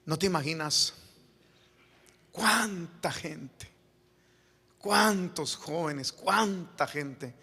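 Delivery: slow, drawn-out words of regret, mildly voiced; understated imitation of a man confessing through tears; retold tearful confession. Penitent friend confessing to the preacher whom he has ruined, mildly tearful. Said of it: "ya estaba llorando".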